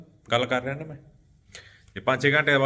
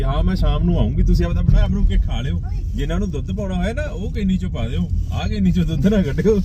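mock wife instructing kids; 5 semitones higher than usual. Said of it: "ਜਵਾਕਾਂ ਨੂੰ ਵੀ ਕਹਿ ਰੱਖਿਆ ਸੀ".

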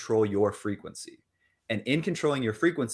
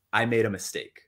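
calm admission. Shown as a demonstration. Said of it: "you can probably feel the difference".

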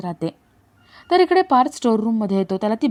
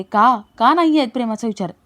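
demanding question. Acted. Kavya questions Jiva about their love, mildly demanding. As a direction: throw the denial back as a pressing "का?". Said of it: "Kavya विचारते".

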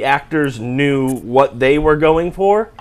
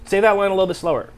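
quick, raised director's note; George Lucas; 5 semitones higher, faster than usual. Retold or imitated. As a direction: imitate a director giving only a bare instruction. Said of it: "pretty good impression of George Lucas".

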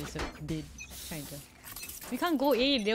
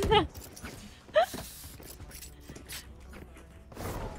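high giggle; 13 semitones higher, 5 dB quieter than usual. Real, not acted.

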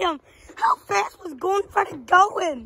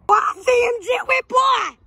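calling out; 7 semitones higher than usual. Acted. Calling out to find him.

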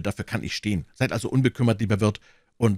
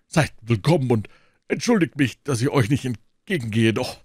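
hearty Porthos; 3 semitones higher, 3 dB louder than usual. Acted. Porthos voiced.

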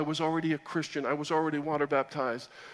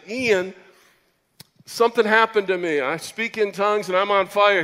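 excited call; 4 semitones higher, 5 dB louder than usual. Retold or imitated. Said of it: "I called him and I said".

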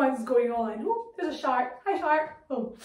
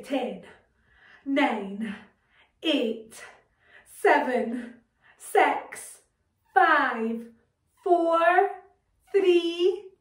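building countdown; 4 dB louder, much slower than usual. Pretend. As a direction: count down, louder and louder toward liftoff. Countdown to a rocket landing.

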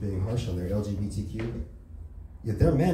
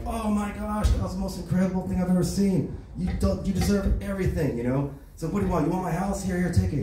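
high, eager rich-man voice; raised excited tycoon gush; gushing billionaire; 8 semitones higher than usual. Acted. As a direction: fawn over the hero like a giddy tycoon. Gushing billionaire offers rewards.

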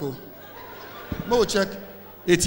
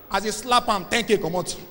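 ordinary delivery

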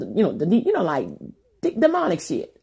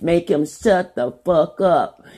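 retold demonic command; much slower than usual. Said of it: "I said".

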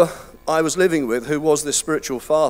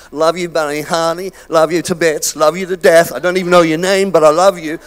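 lightly mimicked effusive Americans; mock gushing Americans; 5 dB louder than usual. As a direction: toss out endearments like an overfriendly American. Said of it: "the Americans, they do that all the time".

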